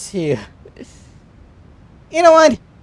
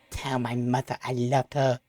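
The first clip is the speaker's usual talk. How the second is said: faint, dying last words; hushed mock deathbed gasp; wounded soldier gasping; 5 semitones lower, 11 dB quieter than usual. Mock dying words after game accident.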